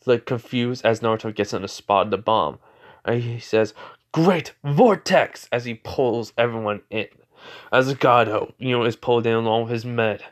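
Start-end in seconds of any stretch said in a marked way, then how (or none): 4.1-5.5 loud, high, drawn-out battle cry; attack call. Acted. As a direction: call out the move's name, big and slow. Calls out an attack in story.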